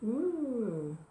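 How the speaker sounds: high falling "ooooh"; long swooping ooh of mock alarm. Warning listeners of a wild party, high drawn-out mock ooh.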